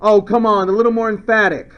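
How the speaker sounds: urging emphatically. Real, not acted. Urging class to chant louder.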